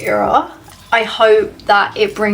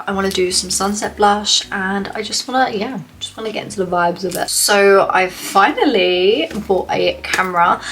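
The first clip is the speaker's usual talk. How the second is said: congested, stuffy head cold; choked up. Real, not acted. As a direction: talk through a bad cold. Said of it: "sorry if I sound really choked up".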